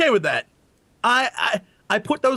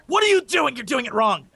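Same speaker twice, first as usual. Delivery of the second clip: mock angry woman; 3 semitones higher than usual. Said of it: "unless it's an angry woman".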